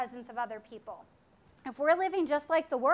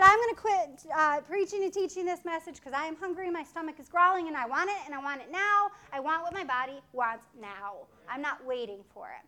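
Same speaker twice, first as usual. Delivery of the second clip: greedy flesh. Pretend. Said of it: "I could have said".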